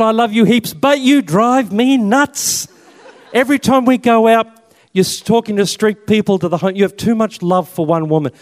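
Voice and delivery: high-pitched mock exasperation, stretching the big complaint; exasperated girlfriend. Girlfriend acted out, fed up.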